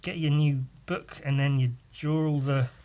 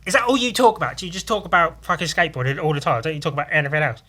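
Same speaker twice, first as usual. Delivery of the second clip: high, louder, rushed nagging taunt; mocking girls; 3 semitones higher, 5 dB louder, faster than usual. Classmate girls yell across the room, mock nagging. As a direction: needle the skater boys fast. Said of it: "would yell over, be like".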